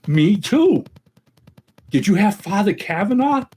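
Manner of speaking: high, eager acted amazement; hammed-up eagerness, pitched well up; excited joke drinker. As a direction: play a drinker thrilled by coincidence. Joke drinker excited at shared past.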